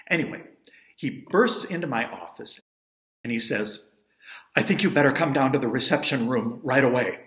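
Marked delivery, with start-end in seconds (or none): 4.5-7.2 loud, urgent relay of news, a touch breathless; excited and breathless. Retold or imitated. Guide bursting into the manager's office with news, excitedly louder. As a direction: burst in with news you can't hold in. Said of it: "excited and a little breathless".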